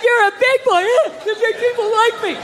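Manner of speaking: high mocking praise to a kid; sing-song praise for a little boy; mock child praise. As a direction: talk down to a child like a proud teacher.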